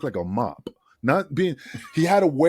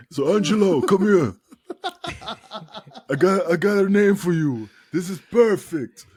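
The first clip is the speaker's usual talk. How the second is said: calling out louder and a bit higher; Johnny calling out excited; 5 semitones higher, 3 dB louder than usual. Retold or imitated. Johnny calling Angelo over, excitedly announcing a name. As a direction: call him over, thrilled with the idea. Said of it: "And he was like".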